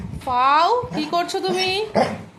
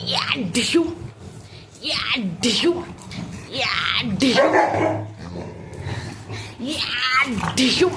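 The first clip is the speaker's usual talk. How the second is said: play-fight noises; 3 semitones lower, slower than usual. Pretend.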